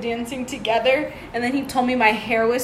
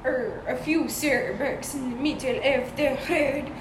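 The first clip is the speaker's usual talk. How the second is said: mock Swedish accent; 4 dB quieter than usual. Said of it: "I think he was like".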